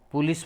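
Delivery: પોલીસ here as "pu-lees"; wrong pronunciation. Shown as a demonstration. Teacher ruling out an error, wrong pronunciation. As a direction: say પોલીસ with "pu" at the start. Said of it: "પોલીસ પણ નહીં".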